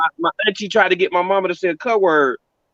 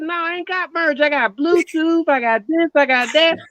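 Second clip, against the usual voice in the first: imitating mama; 9 semitones higher than usual. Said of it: "She said".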